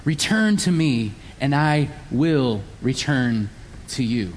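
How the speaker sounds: gracious patient God. Retold or imitated. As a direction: offer it openly, with patience. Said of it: "God is gracious, kind, and patient".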